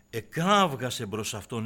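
normal talking voice

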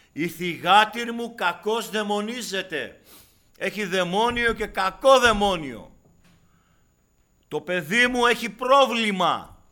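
high, loud, slow anguished cry; desperate mother's shout. Acted. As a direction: plead for your sick child. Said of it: "Φωνάζει στον Κύριο". (μάνα που φωνάζει απελπισμένα για το παιδί της)

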